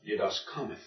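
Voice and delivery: "Didaskamatha" stressed on ka; accent on antepenult. Shown as a demonstration. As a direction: softly model "Didaskamatha", leaning on KA. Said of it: "put it over the antepenult".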